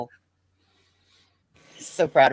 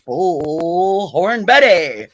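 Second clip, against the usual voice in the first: fight announcer; 3 dB louder, much slower than usual. Retold or imitated. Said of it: "Why are you talking like that?".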